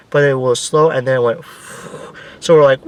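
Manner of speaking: ordinary talk, nothing marked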